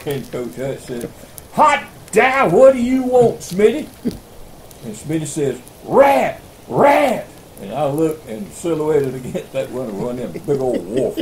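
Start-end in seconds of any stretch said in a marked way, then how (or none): 1.5-3.9 loud, much higher mock coach voice; hammed-up gruff coach, woken up; startled coach. Coach woken, answering loudly. 5.8-7.3 high, loud mock-alarmed cry; Smitty warning the coach about the rat.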